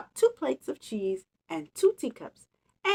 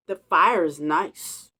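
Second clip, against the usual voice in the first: announcing; 4 semitones lower, 3 dB louder, slower than usual. Acted. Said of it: "announced the Bear".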